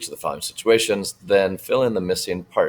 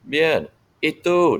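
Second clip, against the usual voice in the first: voicing a cheerful reply; 10 semitones higher, 4 dB louder than usual. Shown as a demonstration. Teacher voicing dialogue reply.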